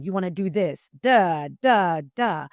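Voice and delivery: mock-bossy trainer laying down the rules; corporate instructor voice. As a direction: corporate trainer telling staff what to do, a touch firm. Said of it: "teaching, instructing".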